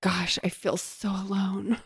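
soft, slow mock self-pity; forlorn. Girl unmourned at her own funeral, imitated as forlorn. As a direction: say it small, slow and hushed.

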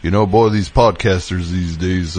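a hint of a country narrator; light Southern twang; lightly folksy Southern drawl. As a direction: grumble like an old country boy. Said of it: "He's just like".

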